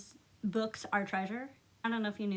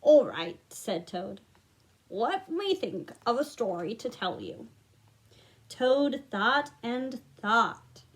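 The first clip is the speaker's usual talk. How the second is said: put-on gentle read-aloud to children; storybook narration. A narrator's reading. Reading Frog and Toad to young listeners, gentle storytelling. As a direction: read it like bedtime for little ones.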